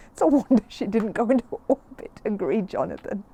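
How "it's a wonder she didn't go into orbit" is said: laughing through the words; a boy cracking up mid-sentence; chuckling, louder boyish voice. Acted. Boy laughing at the garlic joke.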